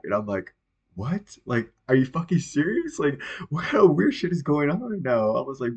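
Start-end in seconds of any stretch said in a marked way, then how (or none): 1.0-5.3 incredulous, raised-pitch questioning; retold disbelief. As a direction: replay being baffled by an absurd text. Retold reaction to an absurd text.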